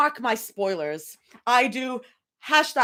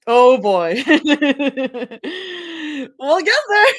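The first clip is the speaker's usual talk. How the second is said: high, loud excited yell; excited shout; 5 semitones higher, 7 dB louder than usual. Real, not acted. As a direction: burst out cheering.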